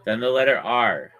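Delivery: spelling it out. Shown as a demonstration. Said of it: "I'm spelling it for you".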